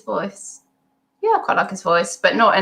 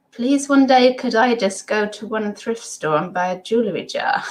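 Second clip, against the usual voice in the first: higher, mock-desperate plea; playful begging, easing off toward the end; pleading; 4 semitones higher than usual. Pleading to visit a thrift store.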